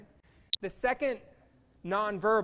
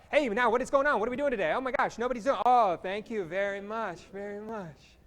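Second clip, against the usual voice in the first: excited rant; 4 dB louder than usual. Shown as a demonstration. Host testing the group's signals with mock excited rant. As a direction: get carried away, words tumbling out. Demonstrating excited fast talk for practice.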